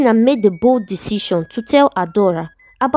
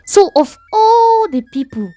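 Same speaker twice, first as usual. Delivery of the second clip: outraged wife; 3 semitones higher than usual. Acted.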